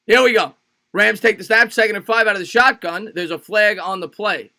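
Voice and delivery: punchy football announcer, easing off at the end; energized booth commentary; live play-by-play. Acted. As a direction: call the snap as it happens. Calls the game live.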